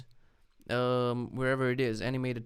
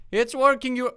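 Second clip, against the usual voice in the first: high, loud excited cry; thrilled, pitched way up; excited outburst; 12 semitones higher, 12 dB louder than usual. Real, not acted. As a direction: burst out in amazed excitement. Game suddenly works.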